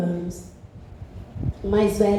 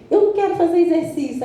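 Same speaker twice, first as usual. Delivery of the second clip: put-on grumpy elderly patient; 5 semitones higher, faster than usual. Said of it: "Tem uns que falam assim".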